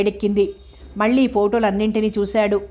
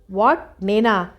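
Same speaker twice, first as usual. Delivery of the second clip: startled disbelief; much slower than usual. Acted. Startled reply to risky order.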